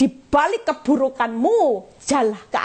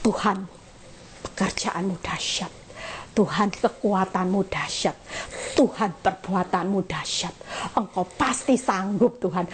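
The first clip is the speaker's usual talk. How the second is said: lower, softer, earnest praise; sincere praise prayer; 3 semitones lower, 4 dB quieter than usual. Shown as a demonstration. Preacher models the right prayer to the congregation, soft and sincere. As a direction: settle down and honor God quietly. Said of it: "mulai katakan sama Tuhan".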